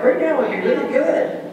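mock impatient plea. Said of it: "Yeah, like".

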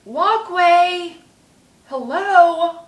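loud, high, indignant yell; angry shout at a car. Retold or imitated. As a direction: shout it at the driver who nearly hit you. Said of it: "And I said it just like that".

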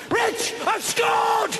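high, slow triumphant yell; excited shout. Acted. Calling to his mate across the bar, excited shout. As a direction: bellow the good news across the room. Spots a woman, calls out.

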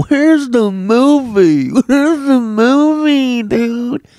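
high, slow, loud whine with a laugh; whiny reader mock. Mocking readers who ask for the movie whiny.

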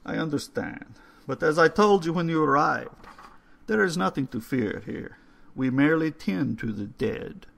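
put-on calm the boy as the old caretaker; old man, reassuring.

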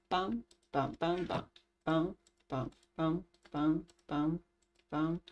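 low, quiet pam-pam; evenly repeated little pams; soft "pam" sound effects. Real, not acted. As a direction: softly mark each action with a pam. Voicing own actions in game.

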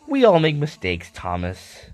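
kindly guard. Acted. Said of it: "the guard forgives Thomas".

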